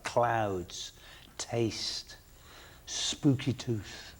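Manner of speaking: breathy hush on each name; whispered names. Real, not acted. Reminiscing to the host, whispering odd band names.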